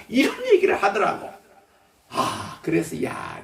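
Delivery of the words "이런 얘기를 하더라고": laughing. Real, not acted. Laughing at the story.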